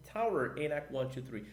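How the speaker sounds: English tower call, far from his own voice; radio call in English. Shown as a demonstration. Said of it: "e se for na torre?".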